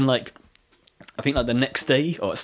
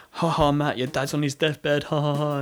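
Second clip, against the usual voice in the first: taunting bully; 5 semitones higher than usual. Retold or imitated. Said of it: "sort of taunting me".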